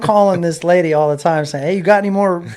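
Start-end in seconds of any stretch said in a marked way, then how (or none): 1.6-2.4 raised, louder mock-eager asking; eager pestering. Racer phones agent for more checks, mock-eager. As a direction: play at nagging hopefully for more.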